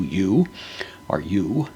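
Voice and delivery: emphasize "you" with a rising tune; stress on YOU. Shown as a demonstration. Bible teacher translating an emphatic question, stress on "you". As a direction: lean on "you", lifting it into a question. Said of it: "with the emphasis on the word su".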